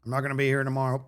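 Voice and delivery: lightly voiced coach giving orders; gymnastics coach. Coach assigning his gymnasts to aerobics, lightly imitated coach. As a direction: lay it out like a coach, in separate chunks. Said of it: "once our gymnastics coach says that".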